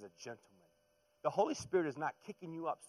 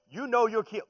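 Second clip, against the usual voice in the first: excited; 10 semitones higher, 14 dB louder than usual. Real, not acted. Preacher excited about parents.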